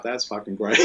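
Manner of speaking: said through laughter; real amused laugh under the words. Real, not acted. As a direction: laugh your way through the line. Laughing at the kid's drawing.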